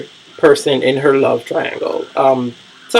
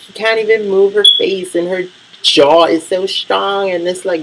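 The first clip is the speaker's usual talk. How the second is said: mock voice pitched well up; high, put-on mimicry of another woman; imitating her talk; 5 semitones higher than usual. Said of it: "she talks like that".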